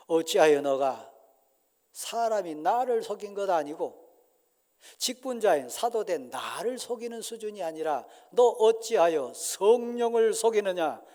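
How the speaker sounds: stern apostle, pressing question; stern rebuke. Acted. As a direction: demand an answer. Peter rebuking Ananias. (베드로의 엄한 추궁)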